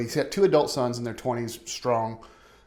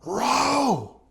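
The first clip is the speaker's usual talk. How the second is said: high shouted one-word order; screamed command; 12 semitones higher, 4 dB louder than usual. Retold or imitated. Guide yelling at the father in the raft, high shout. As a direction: yell at the paddlers to keep going. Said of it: "the guide kept looking at him going".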